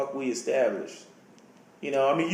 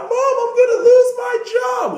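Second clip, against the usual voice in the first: much higher, louder pleading wail; whiny teen plea; 6 dB louder than usual. Retold or imitated. Grounded teen begging his mom, high loud whine. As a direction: wail it like a kid losing everything.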